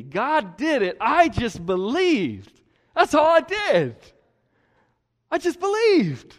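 high, loud, bright-eyed believer voice, building up; a believer exclaiming how simple it was; joyful testimony. Acted. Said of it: "They say things like".

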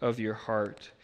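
quiet, earnest correction; God's gentle correction. Retold or imitated. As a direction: gently lay out the truth. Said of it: "God's telling you".

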